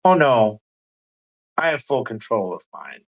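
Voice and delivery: gloating over his mastery; Valak boasting. Acted. Valak gloating to the party about his control. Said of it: "And he goes".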